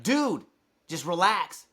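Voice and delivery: retold upset retort. Upset server to an upset guest, exasperated. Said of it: "I'm upset. She's upset".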